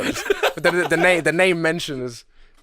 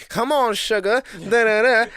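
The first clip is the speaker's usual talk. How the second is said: higher, mock Black American accent; imitating the manager; 6 semitones higher, 3 dB louder, slower than usual. Worker mimicking the manager to colleagues, mock Black American accent. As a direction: mimic her sassy Black American talk. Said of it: "he started imitating her".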